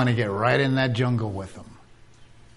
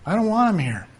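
"I don't want him here" pitched higher, "want" leaned on; mock indignant; 5 semitones higher, faster than usual. Shown as a demonstration. Preacher mimicking a churchgoer rejecting a visitor, higher and indignant. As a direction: rise up in put-on offense on "want".

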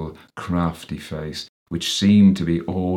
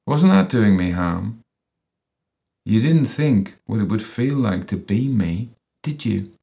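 needling, aggrieved accusations rising high then dropping; bitter, threatening character voice, punching the openings; menacing accuser with a grudge; 4 semitones higher, 4 dB louder than usual. Acted. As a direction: taunt him with pointed tag questions.

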